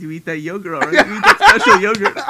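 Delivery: hammed-up coaxing brother; caring big brother. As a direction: urge him like a fussing parent. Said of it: "a rapper's phone call".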